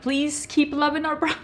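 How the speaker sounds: high, laughing mock plea from the brand; pleading brand voice, rising up high. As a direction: beg like a desperate brand, laughing.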